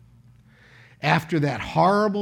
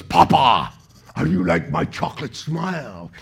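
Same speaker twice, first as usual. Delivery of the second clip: lightly voiced little boy, a touch lower at the start; a hint of a proud small child showing off; imitating a four-year-old; 3 semitones lower than usual. Preacher quoting his son Rowan at breakfast, light child voice. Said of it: "And he looks at me and goes".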